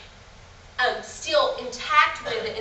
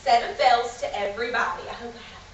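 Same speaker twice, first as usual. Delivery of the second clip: put-on kids show host; 7 dB louder than usual. Shown as a demonstration. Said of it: "talking to you once again like the normal age".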